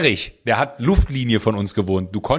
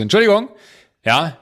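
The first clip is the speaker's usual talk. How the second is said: laughing excuse; 4 semitones higher, 4 dB louder than usual. Retold or imitated. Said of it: "meinte ich so".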